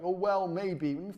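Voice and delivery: slow, hedging "Oh, well, maybe"; mock unsure seller. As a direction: drag it out like a timid salesman. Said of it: "don't have enough confidence".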